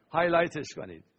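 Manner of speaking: said through a laugh. Real, not acted. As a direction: chuckle while telling them to highlight it. Laughing instruction then repeat.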